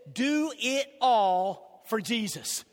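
slow, deliberate slogan; slogan read slow. Shown as a demonstration. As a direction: spell out the slogan slowly. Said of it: "Our slogan is this".

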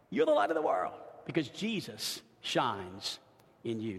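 low and soft, sinking at the end; tender hush. Acted. Pastor assuring his flock Jesus shines in them, softly. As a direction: bring it down to a near hush. Tender close of first point.

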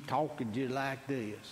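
put-on Arkansas accent. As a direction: slip lightly into Arkansas talk. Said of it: "She'd be in Arkansas".

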